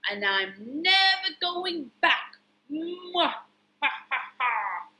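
slow, emphatic storybook villain; lightly hammed-up baddie; evil pea. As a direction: gloat and end on a villain's cackle. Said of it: "And the evil pea".

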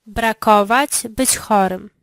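ordinary delivery

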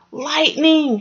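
high frightened shriek; startled by the flash, cry it out. A narrator's reading. Franklin seeing the lightning flash, high frightened shriek. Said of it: "shrieked Franklin".

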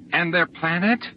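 high, challenging question; accusing question. A narrator's reading. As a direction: demand an answer, upset. Accusing woman presses her question.

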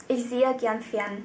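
slow example sentence. Shown as a demonstration.

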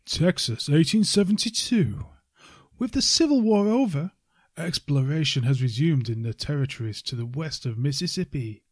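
dramatic trailer narrator read; movie trailer voice. Shown as a demonstration. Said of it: "I'll do it in my best movie voice".

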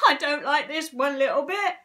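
fretful storybook character voice; distressed cry. A narrator's reading. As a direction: complain loudly in alarm. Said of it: "cried Mister Twit".

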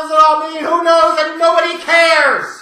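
shouts the dismissal out loud; fed-up ranting yell; angry shout. Real, not acted. Ranting to viewers about booking, a loud fed-up shout.

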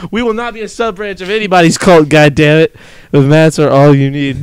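ordinary talk, nothing marked

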